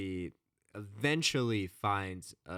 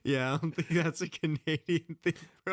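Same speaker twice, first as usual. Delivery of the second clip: laughing; 10 semitones higher, 6 dB louder than usual. Real, not acted. Laughing through the accent debate.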